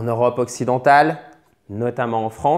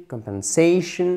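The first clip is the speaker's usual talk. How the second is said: "Compensation" stressed on the syllable before -tion; "Compensation" with its next-to-last syllable stressed; 3 semitones higher than usual. Shown as a demonstration. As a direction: lean on the "sa" in "Compensation". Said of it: "on met l'accent tonique juste avant".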